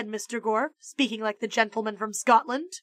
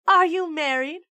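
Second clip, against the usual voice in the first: flirty lady; 7 semitones higher, 4 dB louder than usual. Acted.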